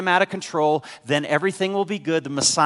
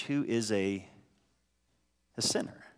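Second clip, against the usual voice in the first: grumbling crowd; 4 semitones lower, 8 dB quieter than usual. Retold or imitated. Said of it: "they grumbled".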